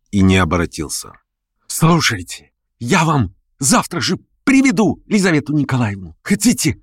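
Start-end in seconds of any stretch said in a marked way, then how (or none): 1.7-6.8 high, urgent pleading voice; pleading Verkhovensky. A narrator's reading. Verkhovensky chasing Stavrogin, offering bribes, high pleading. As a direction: beg him, chasing after.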